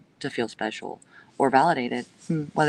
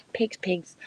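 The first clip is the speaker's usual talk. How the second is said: whispered mocking call; contemptuous whisper; whispered taunt; 4 semitones higher, 4 dB quieter than usual. Real, not acted. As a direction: breathe "pigs" out with contempt. Taunting haters.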